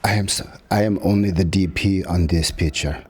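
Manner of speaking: lightly voiced sheepish producer, laughing; a hint of the producer's meek apology; humbled producer.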